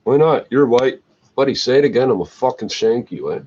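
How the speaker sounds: reliving the standoff, squaring up; retold angry threat. To the white guy in the standoff, angry loud threat.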